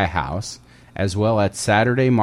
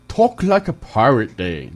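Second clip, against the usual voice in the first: pirate voice; 2 semitones higher, 3 dB louder than usual. Pretend. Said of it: "That didn't sound good at all".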